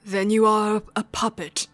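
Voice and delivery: put-on amateur British accent for a cryptic stranger; attempted British villain voice; terrible British accent. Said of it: "You're subject to my terrible British accent".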